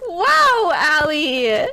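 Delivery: real yell at a teammate. Real, not acted. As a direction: yell it out, pitch shooting up. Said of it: "Quit yelling at me".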